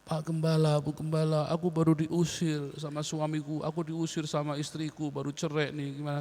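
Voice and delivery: softly acted plea for shelter; a hushed, mildly pleading guest; quiet plea. Thrown-out spouse turns to the pastor, quiet plea. Acts a homeless person pleading.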